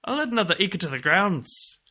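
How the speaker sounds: hammed-up leprechaun Irish accent. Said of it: "Irish accent".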